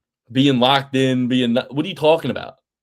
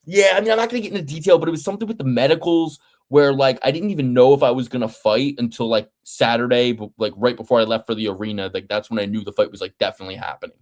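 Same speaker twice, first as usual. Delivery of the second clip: mock Sean Brady; faster than usual. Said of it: "he's like".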